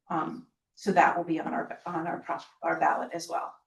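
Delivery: hoarse, strained voice giving out; losing voice. Real, not acted. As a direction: voice fading and rough. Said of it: "I feel like I'm losing my voice".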